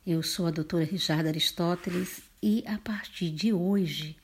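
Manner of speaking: sleepy, just-woke-up voice. Real, not acted. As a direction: speak in a sleepy morning voice. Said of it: "você vai sempre ouvir essa voz de quem acabou de acordar".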